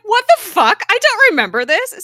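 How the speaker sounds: high, loud, stunned reaction; shocked disbelief. Retold or imitated. Fan retelling her own shock at the twist, high loud disbelief. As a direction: blurt it out, caught off guard. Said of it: "And I was like".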